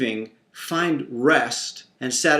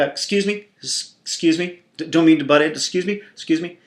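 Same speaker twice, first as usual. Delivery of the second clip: put-on pushy child cutting in; faster than usual. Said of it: "the requisite".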